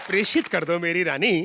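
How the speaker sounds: formal pure hindi. Retold or imitated. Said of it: "शुद्ध हिंदी में बोलने की सौगंध".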